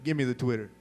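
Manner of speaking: a rough attempt at a friend's voice; lightly voiced impression, poorly done; half-hearted mimicry of a demanding friend; Aaron. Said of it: "That was my Aaron impression".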